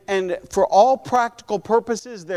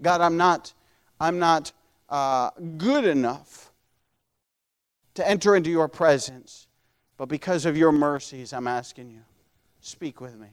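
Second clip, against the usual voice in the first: pleading for mercy; 4 semitones lower than usual. Acted. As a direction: plead lowly, fading to a hush. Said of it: "he's pleading for mercy".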